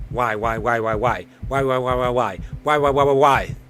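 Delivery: a growing, half-acted desperate why; building panic. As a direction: let each why climb toward a cry. Panicked hero repeats why.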